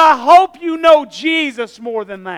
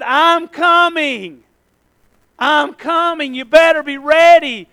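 voice of Jesus; 3 dB louder, slower than usual. Retold or imitated. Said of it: "He said".

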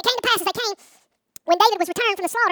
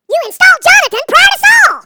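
high, drawn-out holler to the heavens; astonished shout up to God; amazed outburst; 12 semitones higher, 16 dB louder, slower than usual. Retold or imitated. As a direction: yell it slowly in disbelief, far louder and higher.

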